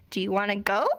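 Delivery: "Do you wanna go?" rising at the end; asking with a clear upward tune; question intonation. Shown as a demonstration. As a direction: let "go" lift into a question. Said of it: "we go up at the end of the sentence".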